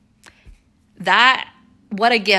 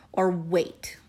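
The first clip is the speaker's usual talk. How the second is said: whispered, softer; dramatic whisper; 2 semitones lower, 6 dB quieter than usual. Acted. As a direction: drop to a hush for effect. Dramatic choice in sales pitch.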